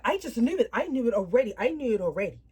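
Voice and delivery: mildly exasperated mock sister, insistent; retold irritation. Sister fed up on hearing of the pregnancy, retold irritation. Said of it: "she was so irritated".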